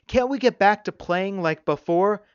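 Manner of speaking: put-on high-pitched small boy pleading; cowering plea. A narrator's reading. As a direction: plead high, like a cornered child. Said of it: "Zachary cowered".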